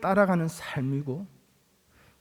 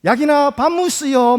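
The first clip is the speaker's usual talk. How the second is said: higher, louder Gyeongsang dialect grandma call; grandparents' Gyeongsang dialect; 6 semitones higher, 6 dB louder than usual. Retold or imitated. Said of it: "할머니, 할아버지도".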